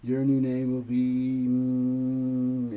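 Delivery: loud slow proclamation; loud, slow announcement. Retold or imitated. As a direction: proclaim it grandly. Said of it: "I said".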